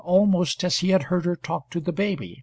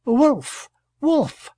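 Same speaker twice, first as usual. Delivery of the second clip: called softly; 9 semitones higher, 5 dB louder than usual. A narrator's reading. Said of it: "she called softly".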